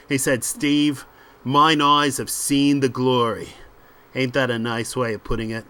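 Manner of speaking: lightly voiced dismissive ringleader; punchy, assured patter in short phrases; cocky British crook. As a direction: brush off your mate's worries. Voices confident Steve.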